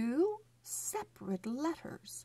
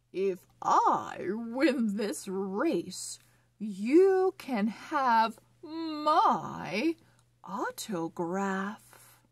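laughing elephant; 5 dB louder, slower than usual. Acted. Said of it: "with a laugh".

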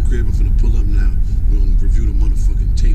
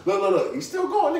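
excited disbelief; 8 dB quieter than usual. Real, not acted. Reacting to fight video.

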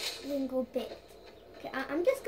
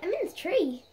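loud panicked pleading; frantic and scared, up a tree; being chased; 4 semitones higher, 6 dB louder than usual. Real, not acted. Stuck in tree fleeing wolves.

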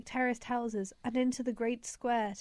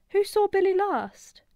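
much higher and louder, a commanding call; 9 semitones higher, 8 dB louder than usual. Acted. Lyra calling out to the crowd of children, loud and commanding. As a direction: call over the crowd to take charge.

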